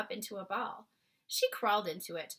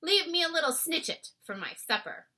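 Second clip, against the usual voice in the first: BFG voice; 3 semitones higher, 8 dB louder than usual. A narrator's reading. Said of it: "the B F G went on".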